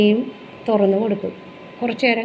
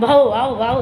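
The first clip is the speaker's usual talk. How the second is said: mock dog bark; 2 semitones lower, slower than usual. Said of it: "എന്നും പറഞ്ഞുകൊണ്ട്".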